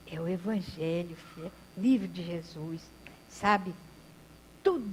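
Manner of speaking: lightly voiced old man, tender and subdued; a hint of humble bedridden grandpa; gentle frail old man. Old man speaks from bed.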